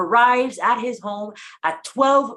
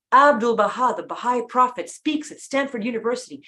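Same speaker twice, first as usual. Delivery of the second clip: lightly voiced sports announcer; a hint of announcer-style newspaper reading. Shown as a demonstration. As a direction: read the headlines a bit like a sports announcer. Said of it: "kind of like a sports announcer voice".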